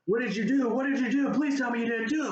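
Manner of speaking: movie Dumbledore losing it at Harry; freaked-out Dumbledore. Retold or imitated. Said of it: "flips out and is like".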